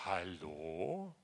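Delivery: soft, far-off hushed hallo; a gentle whispered call from God to the listener; God's whisper. Acted. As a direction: whisper it as the Spirit calling. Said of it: "der Geist Gottes flüstert dir heute Morgen zu".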